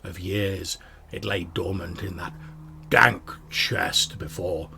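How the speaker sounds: whispered sword voice in his head; voice of the Sun Sword. Acted. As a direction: breathe it like a voice inside the skull. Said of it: "you hear the voice of the Sun Sword".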